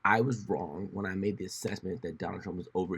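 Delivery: whispered mock admission; mock confession whisper. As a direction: whisper the confession as Bill Maher. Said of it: "say, 'Hey, yo, everybody".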